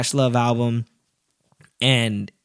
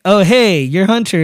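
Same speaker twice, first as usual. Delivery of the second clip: starstruck; 7 semitones higher, 7 dB louder than usual. Retold or imitated. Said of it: "I was just like".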